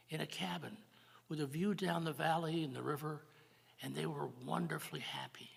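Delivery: gentle story narration, often hushed; storytelling. Acted. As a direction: tell the legend to the congregation. Tells Native American creation story.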